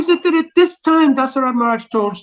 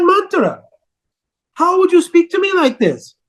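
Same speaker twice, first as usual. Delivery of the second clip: indignant queen; 5 semitones higher than usual. Acted. Kaikeyi hurt, indignant.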